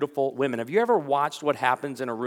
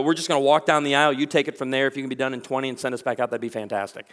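hurried couple; 2 semitones lower, faster than usual. Retold or imitated. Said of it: "bride and groom tell me".

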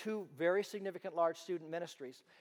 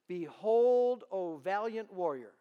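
louder, slower proclamation; angel insists; 7 dB louder, slower than usual. Retold or imitated. Angel repeating himself to doubting Gideon, loud and slow. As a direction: boom it out, then slow down on valiant warrior.

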